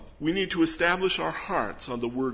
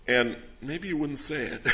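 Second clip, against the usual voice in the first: laughing; 4 semitones higher than usual. Real, not acted. Chuckling at his own point.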